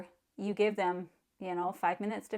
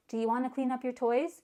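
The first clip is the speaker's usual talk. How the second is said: asking; 4 semitones higher, faster than usual. Shown as a demonstration. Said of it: "Don't ask them the question".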